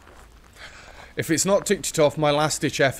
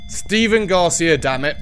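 shaken shout; 5 semitones higher, 5 dB louder than usual. Real, not acted. After jump scare.

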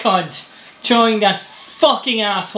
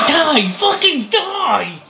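angry yell; 5 semitones higher, slower than usual. Real, not acted. Gamer shouting at enemy.

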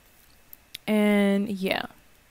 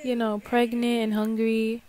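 sweet asking voice. Pretend. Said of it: "Be like".

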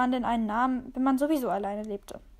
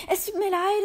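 higher, louder hasty sorry; squealed apology; 8 semitones higher, 5 dB louder than usual. Acted. The cat blurts a sorry to the horrified dog.

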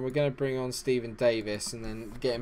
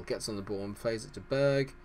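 ordinary talk

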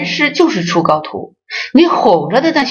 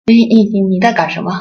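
scolding disciple; 2 semitones higher, faster than usual. Retold or imitated. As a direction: rattle off an impatient rebuke. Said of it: "他都会说".

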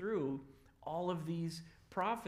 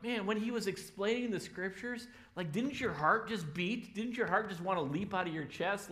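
excited; 5 semitones higher than usual. Retold or imitated. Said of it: "they are so excited".

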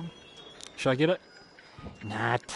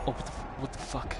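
shocked whisper; 6 dB quieter than usual. Real, not acted. Spooked, hushed reaction.

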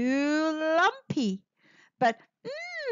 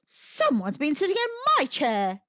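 Mother Bear voice. Acted. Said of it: "said Mother Bear".

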